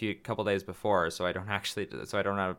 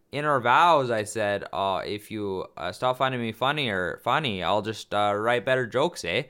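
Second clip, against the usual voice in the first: put-on Canadian accent for wedding vows; lightly hammed-up Canadian accent. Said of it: "I said it like that. In your Canadian accent".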